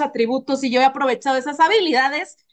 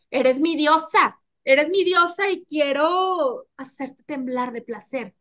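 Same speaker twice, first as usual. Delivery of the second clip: slow, intimate devotion; slow seductive declaration; slower than usual. Retold or imitated. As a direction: say it slowly like a lover. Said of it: "le falten los cojones de decirme". (declaración lenta y seductora)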